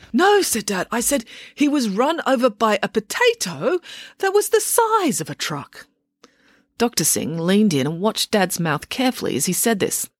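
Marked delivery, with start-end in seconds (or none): 0.1-0.4 high, loud, firm no; Dad correcting. Acted. Scene: Dad correcting the doctor, a high loud no. 0.9-5.9 patient Dad. Acted. Dad voiced in story.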